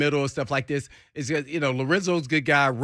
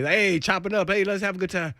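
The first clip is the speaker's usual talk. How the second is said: voice totally changed; 7 semitones higher than usual. Retold or imitated. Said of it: "his voice is totally different".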